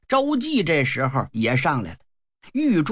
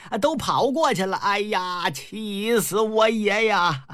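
exasperated outcry; 3 semitones higher than usual. Acted. Old general sees the rebels get away, exasperated. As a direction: cry out in high, stretched exasperation.

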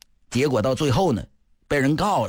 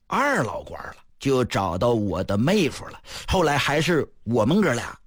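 sneering. Acted. Wang Ren exposing Yan's lawsuit, lightly sneering. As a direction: needle him with cold mockery. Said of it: "一阵冷笑".

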